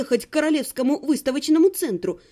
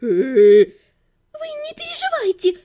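put-on comforting girl; 8 semitones higher, 5 dB louder, much slower than usual. A narrator's reading. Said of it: "утешила его девушка".

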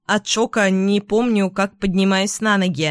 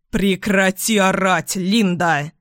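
angry; slower than usual. Acted. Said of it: "со злостью говорит Том".

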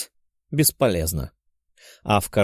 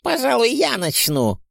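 eager; 12 semitones higher than usual. A narrator's reading. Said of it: "поддержал Плещееву Волконский".

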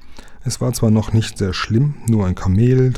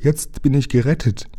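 relieved joy; 6 semitones higher than usual. A narrator's reading. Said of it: "wiederholte er immer wieder".

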